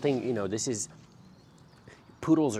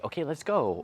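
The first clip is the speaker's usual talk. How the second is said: demo dog cue; 7 semitones higher than usual. Shown as a demonstration. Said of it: "Or you can say".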